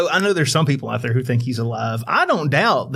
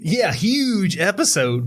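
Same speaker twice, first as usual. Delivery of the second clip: slow drawn-out echo; 6 semitones higher, much slower than usual. Pretend. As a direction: stretch every word slowly.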